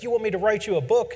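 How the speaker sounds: an old teacher mocking his student's question, quick sarcastic snap; sarcastic retort. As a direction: toss it off as a cranky old man. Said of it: "he's like".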